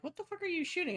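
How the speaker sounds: high, startled shout; yelling at my own guns; mock yell. Gamer shouting at his own guns firing. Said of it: "and I'm like".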